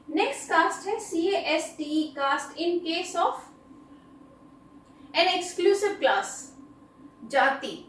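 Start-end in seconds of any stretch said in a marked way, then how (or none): 2.2-6.3 very slow, every word spaced out; slow dictation. Shown as a demonstration. Teacher reading an example sentence very slowly to students. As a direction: read it out slowly so students can write it down.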